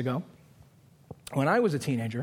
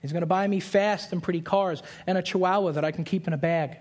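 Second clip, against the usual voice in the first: naive bride; 3 semitones higher than usual. Retold or imitated. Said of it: "thinking to herself".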